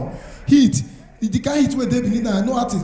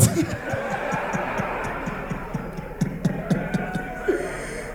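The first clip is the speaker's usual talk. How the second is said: crowd laughter; 12 semitones higher, 11 dB quieter than usual. Real, not acted. Audience laughs at stand-up joke.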